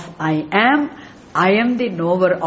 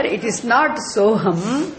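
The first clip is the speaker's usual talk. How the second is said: not pressed harder; stress on not; 3 semitones higher than usual. Shown as a demonstration. Teacher correcting students, stressing not. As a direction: lean on not, not Soham. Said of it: "now here".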